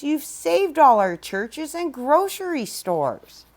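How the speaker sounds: a tiny Who piping up; tiny mayor's voice. Acted. The speck's mayor thanking Horton, high tiny voice. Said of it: "came the voice".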